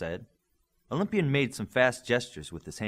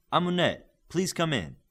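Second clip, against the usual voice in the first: a bit higher and louder, calling in; slightly raised voice; 8 semitones higher, 5 dB louder than usual. A narrator's reading. Connor calling Amunet in to meet the team, voice slightly raised. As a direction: call her in from the next room. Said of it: "Connors raised his voice slightly".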